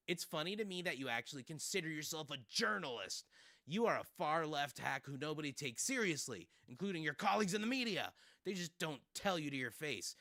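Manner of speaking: lightly voiced indignant press secretary; mildly mocking impression, building in force; Carolyn Levitt. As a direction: read it as a touchy, scolding retort. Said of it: "That's my Carolyn Levitt impression".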